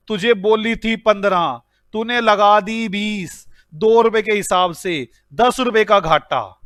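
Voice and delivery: slow, deliberate telling-off; teacher demonstrating the correct reprimand; corrected scolding. Shown as a demonstration. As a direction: spell out each figure slowly. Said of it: "production manager को बोलूंगा".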